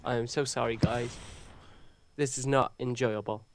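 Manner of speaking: stuffy, blocked-nose voice; talking through a blocked nose. Real, not acted. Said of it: "I sound like someone is constantly pinching my nose".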